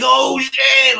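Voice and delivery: high, drawn-out mock shout of amazement; stretched-out, high-pitched astonished exclamation; retold amazement. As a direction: imitate a friend blown away, voice jumping up. Retelling Joe's amazed reaction.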